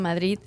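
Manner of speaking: final D of "Madrid" softened to TH; local Madrid pronunciation. Shown as a demonstration. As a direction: say "Madrid" as "Madreeth". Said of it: "almost like a T H at the end".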